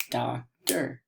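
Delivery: DOCTOR in two separate beats, doc, tor; DOCTOR with a gap, doc-tor; split into syllables. Shown as a demonstration. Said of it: "Again, two syllables".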